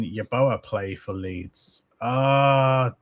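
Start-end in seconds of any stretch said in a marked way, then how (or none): none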